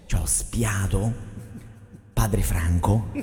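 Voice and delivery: normal talking voice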